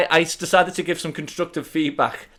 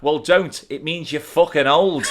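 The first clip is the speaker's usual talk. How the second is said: slow, laughing shouted put-down; girl's retort; 4 dB louder, slower than usual. Retold or imitated. Twelve-year-old girl insulting him, laughing shout. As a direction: fire it back like a cheeky girl. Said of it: "she shot back".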